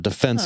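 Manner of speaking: "defense" said duh-FENSE; stress on second syllable. Shown as a demonstration. Giving the military contractor example, "defense" stressed on FENSE. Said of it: "emphasis on the different syllable".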